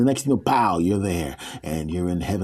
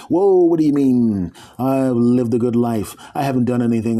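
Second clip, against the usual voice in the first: louder, indignant protest; 3 semitones higher, 5 dB louder than usual. Acted. Man protesting to the gatekeeper lady, loud. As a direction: push back, shocked.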